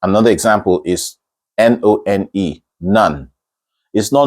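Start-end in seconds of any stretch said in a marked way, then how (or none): 2.8-3.3 "none" said like "nun"; short uh in the middle of "none"; uh vowel. Shown as a demonstration. Teacher giving the next example, correct "none". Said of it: "It's a kind of uh".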